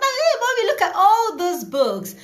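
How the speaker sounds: put-on very high, loud child's squeal of delight; mother reenacting her daughter's excitement over books; overjoyed little girl. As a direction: squeal it like a thrilled small child. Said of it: "She was that excited".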